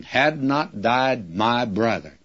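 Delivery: slow, deliberate "Had not died", easing into "my brother"; emphasis on "Had not died". Shown as a demonstration. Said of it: "that is the thing that she's emphasizing".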